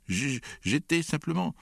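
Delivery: high, stammering tearful excuse; tearful child trying to explain himself; sobbing. A narrator's reading. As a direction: stammer through sobs. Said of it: "dit Alexandre en sanglotant".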